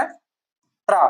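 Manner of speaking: त्रा stretched very slowly; drawn out letter. Shown as a demonstration. Teacher introducing the letter to students. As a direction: hold त्रा long for the class. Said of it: "देखते हैं हम लोग क्या".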